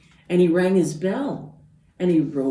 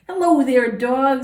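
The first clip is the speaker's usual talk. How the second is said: high, louder duck greeting; cheery Duck; 9 semitones higher, 8 dB louder than usual. Acted. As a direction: sing out hello as Duck. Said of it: "said Duck".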